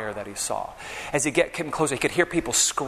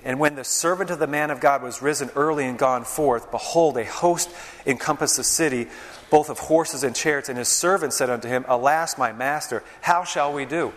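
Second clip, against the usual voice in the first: scripture reading. Acted. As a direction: proclaim the passage to the congregation. Reads scripture aloud.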